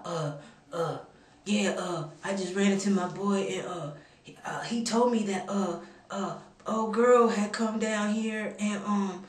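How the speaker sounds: lightly imitated hesitant man on the phone; halting mimicry full of filler sounds; doing the caller. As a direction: stall and stumble through an awkward phone explanation. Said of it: "I'm kinda doing him".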